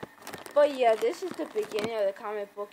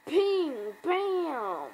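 high-pitched cartoon gunfire noises; imitated gunshots; 5 semitones higher than usual. Narrator acting out a shootout, imitated gunshots. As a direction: sound out the shots comic-book style.

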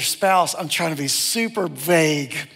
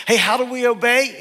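put-on parent quizzing kids; 4 semitones higher, 4 dB louder than usual. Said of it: "We would say it like this for our girls".

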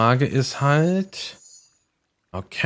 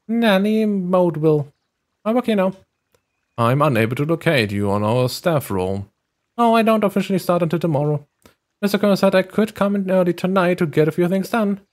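higher, polite nanny voice; high sweet nanny; 5 semitones higher than usual. Acted. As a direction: play the friendly new nanny.

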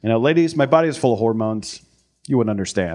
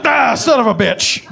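high, loud, slow pained curse; mock burned yelp; 11 semitones higher, 4 dB louder, slower than usual. Acting out burning himself.

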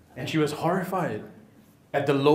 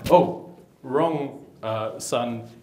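mild surprise; 2 semitones lower, much slower than usual. Retold or imitated. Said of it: "the dad's like".

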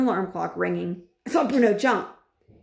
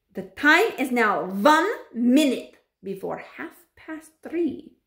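slow, ceremonious witch voice, raised; announcing witch; 5 semitones higher, 4 dB louder, slower than usual. A narrator's reading. Grand High Witch announcing the time to witches, proclaiming. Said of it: "announced the Grand High Witch".

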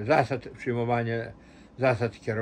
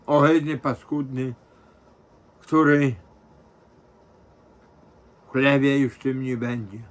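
wailing through tears, voice cracking; tearful lament; crying; 5 dB louder than usual. Real, not acted. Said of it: "Krzysiek, bez płaczu mi".

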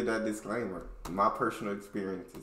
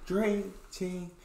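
drawn-out high shouted hello; hype greeting; 7 dB louder, much slower than usual. Real, not acted. Youtuber greeting his viewers, loud and drawn out.

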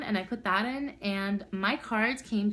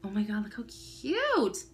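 ordinary delivery

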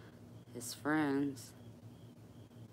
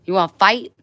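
challenging; 6 semitones higher, 19 dB louder, faster than usual. Real, not acted. Challenging the dog.

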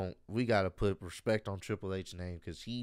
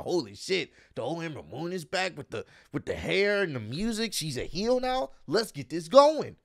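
excited fan; 5 semitones higher than usual. Retold or imitated. Voicing excited fans' reaction.

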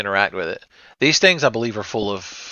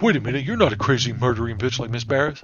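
voicing the dog. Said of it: "He's like".

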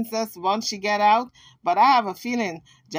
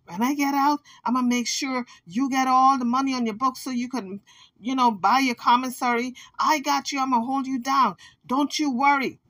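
higher reassuring mock promise; imitating Jaguar promising; 3 semitones higher than usual. Vlogger imitating Jaguar promising the Kansas money, higher. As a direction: play Jaguar sweet-talking her, pitched up. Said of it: "So I'm sure Jaguar said".

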